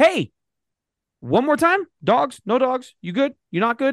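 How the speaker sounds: mock very high shout, shrill and carrying. Retelling a stranger calling from across a parking lot: imitating someone shouting. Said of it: "he shouts across the parking lot".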